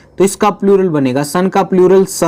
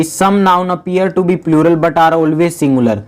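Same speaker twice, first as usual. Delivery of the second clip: slow reading of the rule; much slower than usual. Shown as a demonstration. Teacher slowly reads rule thirteen to students. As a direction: slowly read out rule, word by word. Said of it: "क्या बोला है".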